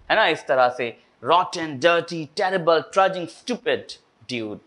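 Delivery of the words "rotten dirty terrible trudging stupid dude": slow, word-by-word mock anger; a touch of staged anger on harsh words; mildly angry demo. Shown as a demonstration. Teacher showing how to say it, mildly mock-angry. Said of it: "थोड़ा सा गुस्सैलू अंदाज में".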